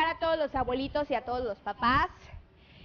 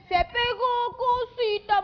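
put-on cooing baby talk; 7 semitones higher, 4 dB louder, much slower than usual. Host teasing sweet baby voice.

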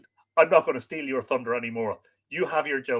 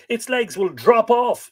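high, loud alarm; dramatic dismay, voice leaping up; despairing cry; 11 semitones higher, 9 dB louder, slower than usual. A narrator's reading. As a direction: wail it in mock despair. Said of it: "he cried in despair".

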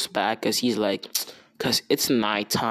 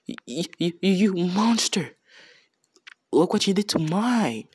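disgusted king; 5 semitones higher than usual. Retold or imitated. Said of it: "looking at him with disgust".

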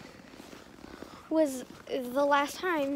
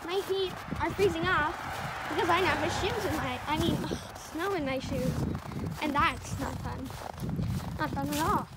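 dry, passive-aggressive; sarcastic, quietly complaining; 5 dB quieter than usual. Acted. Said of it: "just a little sarcasm and passive aggressiveness".

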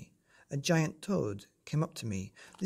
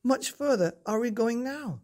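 put-on boy shouting; 8 semitones higher, 3 dB louder than usual. A narrator's reading. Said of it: "I shouted".

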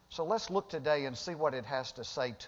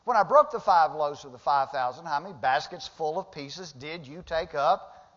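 higher, louder, searching questions; Jesus rebuking; 5 semitones higher, 4 dB louder than usual. Acted. Jesus questioning the forgetful disciples, loud and high. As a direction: press the disciples hard. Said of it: "he says".

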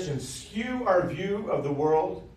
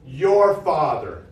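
"Your Father" drawn out, slow and louder on "Your"; slow emphasis on Your; 7 dB louder, slower than usual. Shown as a demonstration. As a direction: lean on "Your" slowly, louder. Preacher stressing key phrase.

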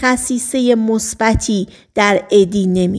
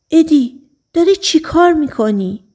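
alarmed question; 7 semitones higher than usual. Acted. Jasper confronts Eddie, alarmed.

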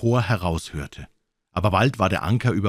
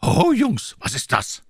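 high, loud hail; calling cook; 3 dB louder, slower than usual. A narrator's reading. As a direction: call out like a cheerful sea cook. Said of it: "rief er". (Long John ruft laut und hoch)

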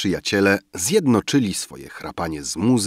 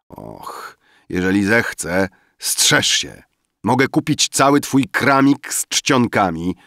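put-on drunken boasting. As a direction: play a drunk young man gloating over his fortune. Drunk Rafael and Emil boasting. (pijacki, chełpliwy głos)

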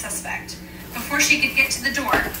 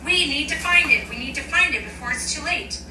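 frantic; 5 semitones higher than usual. Acted. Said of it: "mumbling louder and louder".

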